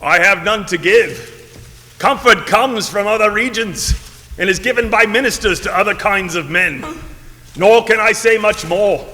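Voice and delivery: lightly rasped solemn ghost; grave, mournful spirit warning; raspy ghost voice. Acted. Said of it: "this raspy voice".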